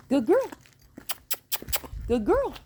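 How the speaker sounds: very high, bright praise; high dog praise. Real, not acted. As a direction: reward her with your voice.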